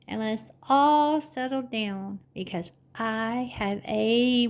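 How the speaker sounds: a gentle sing-song poem recital; lightly lilting nursery-rhyme reading; reading a rhyme to children. Acted. Host recites the settling-down poem to little viewers, gently sing-song.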